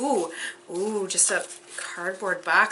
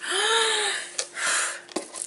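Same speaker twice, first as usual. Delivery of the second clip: long, high gasp; real gasp of excitement; amazed gasp; 11 semitones higher, 4 dB quieter than usual. Real, not acted. Amazed at more stuff inside.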